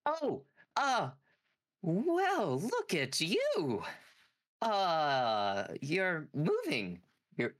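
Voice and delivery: high, slow mad scientist; a high, wavering doctor voice; Doctor Frankenstein voice. Acted. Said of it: "sorry, I gotta get the voice right".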